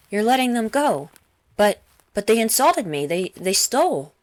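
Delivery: high, indignant whine; whining. Acted. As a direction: protest like a sulking child. Serenade protests, whining.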